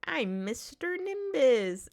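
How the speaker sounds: high, loud, drawn-out introduction; Mister Nimbus. Acted. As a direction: announce yourself slowly in a high character voice. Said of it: "I say it in the Mister Ni".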